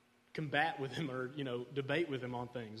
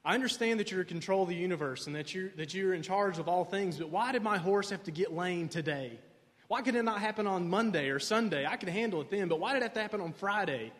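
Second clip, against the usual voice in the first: Tevye praying; 3 semitones higher than usual. Retold or imitated. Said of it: "And he's praying".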